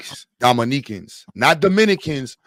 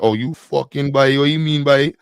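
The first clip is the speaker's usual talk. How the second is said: put-on rough stab at Trinidadian accent; half-committed Trini lilt, breaking off; attempted Trini accent. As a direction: imitate a Trinidadian, not very well. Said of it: "I can't do the Trini accent".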